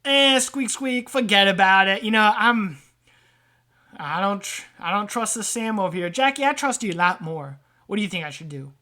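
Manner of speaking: lightly voiced dismissive rat; wary rat trader. Rat turning to Jackie for advice, wary.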